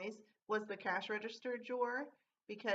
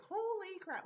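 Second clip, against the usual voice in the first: a quick, higher burst of shock; startled exclamation; 9 semitones higher, slower than usual. Retold or imitated. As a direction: blurt it out, caught off guard. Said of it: "and I was like".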